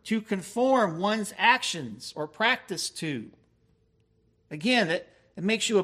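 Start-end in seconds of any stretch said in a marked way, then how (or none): 0.0-3.3 slow definition. Shown as a demonstration. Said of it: "No, that word keep there means".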